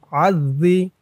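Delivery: gentle dh in adh-dhi; soft dhal. Shown as a demonstration. Teacher showing how dhal sounds, dh softened. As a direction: let the dhal come out soft. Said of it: "জালের উচ্চারণটা নরম হবে".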